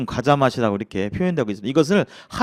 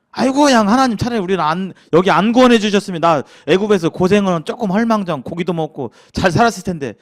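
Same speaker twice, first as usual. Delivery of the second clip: whining at God, a bit higher; mock complaint; 3 semitones higher, 3 dB louder than usual. Preacher voicing Israelites grumbling to God, mock whining. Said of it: "원망과 불평을 하게 될 때".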